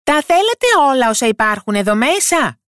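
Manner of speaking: high-pitched little yell; high, carrying story-voice shout; shouting his loudest. A narrator's reading. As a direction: cry out as a tiny character. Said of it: "άρχισε να φωνάζει όσο πιο δυνατά μπορούσε".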